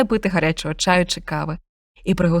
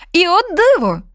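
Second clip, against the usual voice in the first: higher, louder wonder; marvelling narrator; 9 semitones higher, 5 dB louder than usual. A narrator's reading. Narrator reveals Grandfather Frost's arrival with wonder. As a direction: gasp out the miracle.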